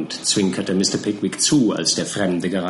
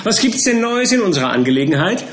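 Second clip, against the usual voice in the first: eager; 4 semitones higher, 4 dB louder than usual. Acted. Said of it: "rief der kleine Mister Perker".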